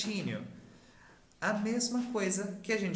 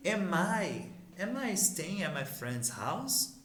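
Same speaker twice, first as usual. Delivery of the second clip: "am I staying at my friend's house?" slowly, rising at "house"; question intonation; slower than usual. Shown as a demonstration. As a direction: model it as a question, lifting "house" at the end. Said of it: "mudar a entonação da nossa pergunta". ("am I staying at my friend's house?" com entonação de pergunta, devagar)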